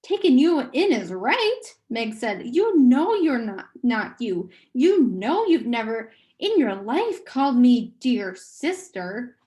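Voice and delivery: loud, bitter comeback; angry retort. Acted. A sister snapping back at her hypnotized brother, loud and bitter. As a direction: throw his words back at him.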